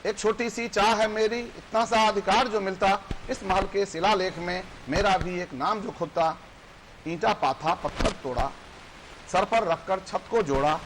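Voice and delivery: measured verse recital with lifted line ends; poem recitation. Acted. Poet recites a labourer's small wish, declaimed in verse. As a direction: recite it rhythmically to an audience.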